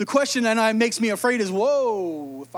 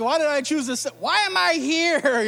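exasperated wife; 3 semitones higher than usual. Retold or imitated. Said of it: "She's like".

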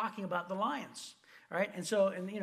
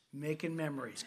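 coaxing memories; 5 semitones lower than usual. Retold or imitated. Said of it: "He goes".

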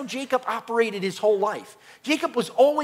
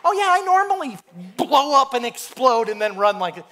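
raised, louder mock-casual boast; mock nonchalance; 4 semitones higher, 5 dB louder than usual. Injured runner acting as if it's normal, mock nonchalance. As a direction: brag as if it were routine. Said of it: "as if I did that all the time".

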